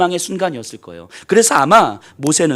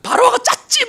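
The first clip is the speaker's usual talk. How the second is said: angry mob yell; 4 dB louder than usual. Retold or imitated. Angry crowd voiced at Moses.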